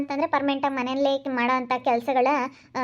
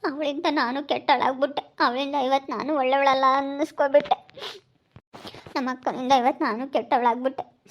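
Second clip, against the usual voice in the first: acted weepy lament; tearful. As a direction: complain through tears, pausing to sob. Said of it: "ಅಳ್ಬೇಡ, ಸುಮ್ನಿರು". (ಅಳುತ್ತಾ ದೂರುವ ಧ್ವನಿ)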